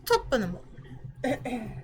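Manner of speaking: a laughing half-hearted Irish accent try; Irish accent warm-up. Shown as a demonstration. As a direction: toss off a quick mock Irish greeting. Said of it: "supposed to be with an Irish".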